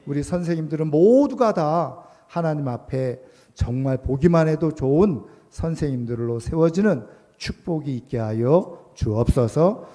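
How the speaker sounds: earnest, swelling congregational prayer; public prayer. Real, not acted. Preacher to God on behalf of the teachers, fervent closing prayer. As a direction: pray aloud, building in force toward each petition.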